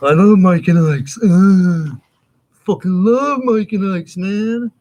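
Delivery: excited. Real, not acted. Raving about candy.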